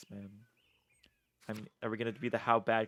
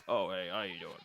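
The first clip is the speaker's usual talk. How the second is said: puffed-out mouth; 4 semitones lower, 4 dB quieter than usual. Shown as a demonstration. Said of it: "puffing out the bottom of my mouth".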